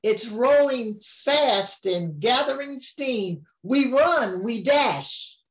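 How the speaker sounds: sing-song storybook reading; rhyming lines read aloud to a grandchild; reading to a child. A narrator's reading. Grandma reads the picture book to her grandchild, sing-song.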